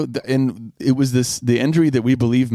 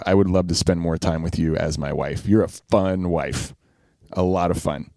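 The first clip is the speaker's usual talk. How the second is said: tender; 5 semitones lower than usual. Real, not acted. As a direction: speak it gently and sincerely. Sincere words to wife.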